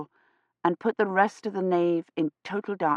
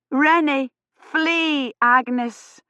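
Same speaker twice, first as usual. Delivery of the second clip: shout; 7 semitones higher, much slower than usual. A narrator's reading. Kivrin warning the girl, alarmed shout. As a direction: yell her name in alarm. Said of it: "she cried".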